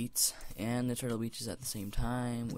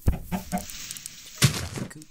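slow higher sing-song line; 7 semitones higher, 3 dB louder, much slower than usual. Shown as a demonstration. Gamer chanting chickens out the coop, slow and higher. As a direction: drawl it out like a chant. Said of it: "rhyme said slow, higher".

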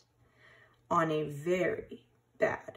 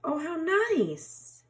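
touched sniff; 9 semitones higher, slower than usual. A narrator's reading. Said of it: "he sniffed".

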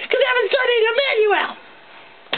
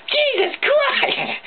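drawn-out slow groan with a rising end; disgusted exclamation; 3 semitones higher, much slower than usual. Acted. Ranter recoils from cold SpaghettiOs, slow disgusted drawl. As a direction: stretch it out in revulsion.

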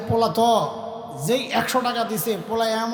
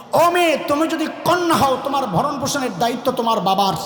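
preaching litany. Acted.

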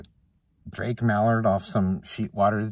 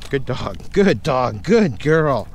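squeaky praising a dog; 3 semitones higher, 6 dB louder, much slower than usual. Real, not acted.

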